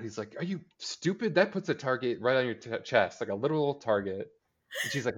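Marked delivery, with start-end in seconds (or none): 0.4-4.3 incredulous outburst, pitched up at the start; freaking out. Retold or imitated. Retelling Archie scolding her over the shirt, freaking out. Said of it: "Archie's, like, freaking out".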